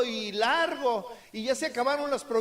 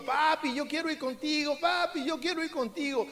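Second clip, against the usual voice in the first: put-on child's voice; 4 semitones higher than usual. Child begging father in story.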